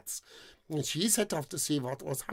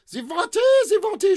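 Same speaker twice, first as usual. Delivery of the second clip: high, louder shrill reply; high-pitched maiden; 10 dB louder than usual. Acted. The deaf maiden answers him, high and shrill. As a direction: answer with a hand cupped to the ear. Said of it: "she said".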